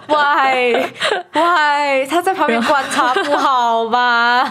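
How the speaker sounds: half laughing, half crying why; real spooked laugh-cry; laughing distress. Real, not acted. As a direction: plead through nervous laughter. Distressed reaction to scary story.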